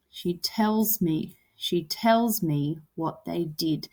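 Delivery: slow, with weight on "tells" and "did"; stressed beat. Shown as a demonstration. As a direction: draw out "tells", then land on "did". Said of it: "So tells and did".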